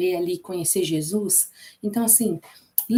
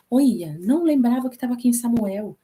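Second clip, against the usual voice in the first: mild re-enacted surprise. Teacher re-enacting finding a verse in Samuel, mildly surprised. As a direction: relive a small happy discovery mid-reading. Acts out her surprise while reading.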